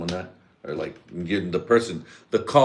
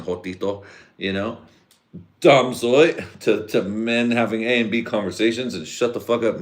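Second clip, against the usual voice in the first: higher, louder scolding rant; heated rant; 4 semitones higher, 3 dB louder than usual. Retold or imitated. Scolding new guys at work for butting in, heated. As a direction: put the new guy in his place.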